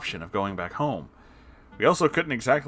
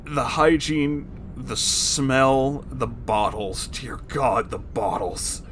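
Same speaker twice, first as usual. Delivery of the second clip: slow, appalled listing; disgusted; much slower than usual. Real, not acted. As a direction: recoil at each word. Disgusted reaction to story.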